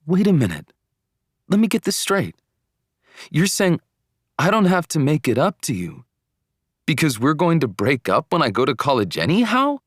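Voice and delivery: disbelieving. A narrator's reading. Boyfriend hears breakup is assumed before college, disbelieving. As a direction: cut in and spell it out in disbelief. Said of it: "couldn't believe what I was hearing".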